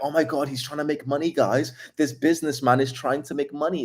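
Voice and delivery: mocking outraged viewer. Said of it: "they're like".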